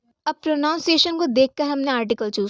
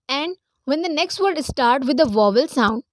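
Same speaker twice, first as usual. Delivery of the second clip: slow reading of rule; much slower than usual. Shown as a demonstration. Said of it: "reads rule slowly to class".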